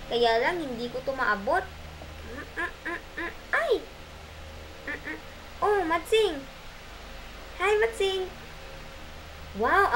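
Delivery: bright lively storybook voices; lightly voiced Matsing and Pagong; playful character voices. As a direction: voice the animals for children. Puppet-style story voices.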